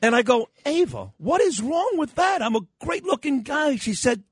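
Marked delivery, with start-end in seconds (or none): 0.7-3.8 hammed-up wounded pride; mock-offended dad. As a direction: protest in playful disbelief, pitched way up. Retold protest to his offended daughter.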